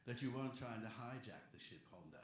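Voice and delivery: half-convincing Obi-Wan impression; bad Obi-Wan. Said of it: "this is my bad, uh, Obi-Wan".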